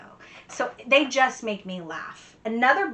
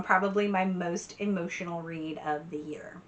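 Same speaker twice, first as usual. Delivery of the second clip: breathy whisper, voice dropped right down; whispered aside; 6 dB quieter than usual. Real, not acted. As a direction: let it slip out like a secret.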